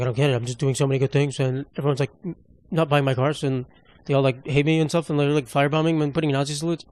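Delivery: understated mock self-pity; mock sad Elon. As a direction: imitate someone feeling sorry for himself. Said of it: "he just looks so sad".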